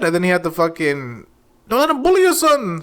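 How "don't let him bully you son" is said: imitating the coach. Coach in the corner urging his son on, high mock yell. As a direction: fire up your fighter like his corner man, hammed up. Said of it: "Yeah, his coach".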